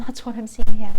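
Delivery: nasal, congested, nose blocked up. Real, not acted. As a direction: speak as if a peg is on your nose. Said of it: "sounds as if I've got a peg on my nose".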